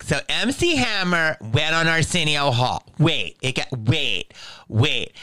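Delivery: high, lilting mock gay voice. Comic retelling his club set in a put-on gay voice. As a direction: camp it up for the club crowd. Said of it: "why'd you do your act in a gay voice".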